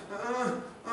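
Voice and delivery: repeated imitated groans; demonstrated moans of someone sick; pained groan. Shown as a demonstration. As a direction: groan softly as if really hurting. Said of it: "정말 아프면".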